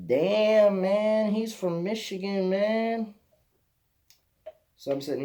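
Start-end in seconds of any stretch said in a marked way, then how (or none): 0.1-3.1 loud, high, stretched-out exclamation; hammed-up impression of an amazed German guy; Lucas. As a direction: call it out high, dragging the words. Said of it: "the first thing that comes out of his mouth is".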